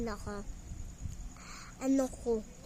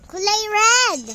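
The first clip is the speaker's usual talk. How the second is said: excited exclamation; 5 semitones higher, 11 dB louder, slower than usual. Real, not acted. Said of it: "yung kulay red na yung ano ko, mata ko".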